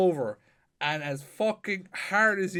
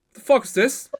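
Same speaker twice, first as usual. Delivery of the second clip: higher and louder, a retold angry yell; angry shout; 9 semitones higher, 8 dB louder than usual. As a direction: bark it like a mate who's been wronged. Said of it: "and he goes".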